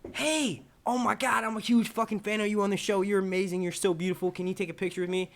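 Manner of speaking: high, rushed-together mock gushing; gushing fan act. Fan greeting his favorite actress, mock gushing. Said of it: "I'll go up to her and I'll be like".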